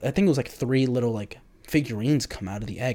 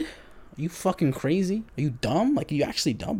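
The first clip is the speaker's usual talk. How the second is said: incredulous; 6 semitones higher than usual. Real, not acted. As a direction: scoff at the idea. Mocking the blood tattoo idea.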